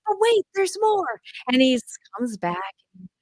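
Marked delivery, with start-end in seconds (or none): 0.1-1.2 high, slow salesman lilt; infomercial pitch. Retold or imitated. Mom imitating herself coaxing her son back, like a high, slow TV ad. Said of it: "I'm like".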